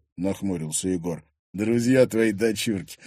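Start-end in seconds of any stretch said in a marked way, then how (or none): 1.5-3.0 slow, insolent reply. Acted. Thug answering the girl's father, insolent. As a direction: stretch it out cheekily. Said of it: "нагло ответил брюнет".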